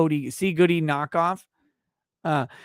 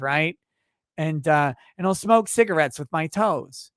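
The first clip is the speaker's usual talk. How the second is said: mock wife voice; 2 semitones higher than usual. Wife voiced pitching OnlyFans.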